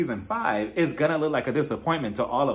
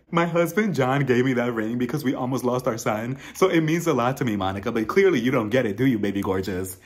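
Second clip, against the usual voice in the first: lightly voiced Lisa, hamming up hurt feelings; mock fake emotion. Host imitates Lisa's fake emotional plea, mock hurt. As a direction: play the wounded wife, half-hearted. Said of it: "getting all fake emotional".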